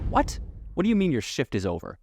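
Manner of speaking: fast, high, incredulous question; can't believe what you just heard; disbelief. Real, not acted. Driver says shift is over.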